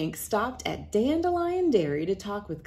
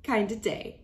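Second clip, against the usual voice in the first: higher, louder happy granny; joyful granny; 9 semitones higher, 4 dB louder than usual. Acted. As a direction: celebrate with everyone. Granny celebrates.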